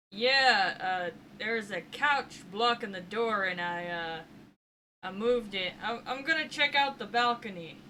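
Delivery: loud, halting reply to someone below; calling back. Acted. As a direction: call an awkward explanation downstairs. Answering a call from downstairs.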